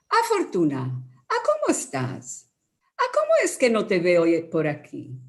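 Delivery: a woman calling out a chatty hello; gossiping neighbour. Retold or imitated. Woman greets her friend Fortuna with sing-song questions. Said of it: "una mujer demanda a otra".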